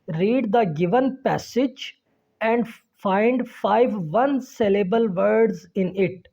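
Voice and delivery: slow, word-by-word English read-aloud; teacher's model reading. Shown as a demonstration. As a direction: read each sentence slowly for young learners. Reads the exercise aloud. (ठहर-ठहर कर पढ़ाती आवाज़)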